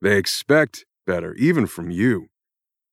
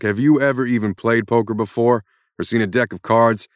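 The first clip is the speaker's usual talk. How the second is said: higher and louder, shouting curses at the author; furious rant; 4 semitones higher, 6 dB louder than usual. Acted. Jack Irons yells at the writer who created him, furious. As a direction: let rip at her like a fed-up hero. Character breaks frame, rants at author.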